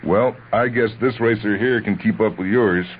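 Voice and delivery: high, loud, cocky challenge; brash and loud, showing off for the woman; loud boast. Acted. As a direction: boast loudly to drown him out. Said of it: "his partner's loud".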